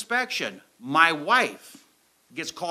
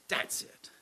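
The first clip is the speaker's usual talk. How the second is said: whispered; 12 dB quieter than usual. Retold or imitated. Quitting, said to his wife.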